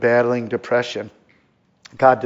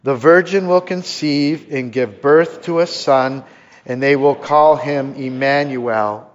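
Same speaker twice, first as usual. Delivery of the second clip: measured, deliberate scripture reading; slow unison reading; slower than usual. Shown as a demonstration. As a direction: read slowly together with the congregation. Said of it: "Let's read it".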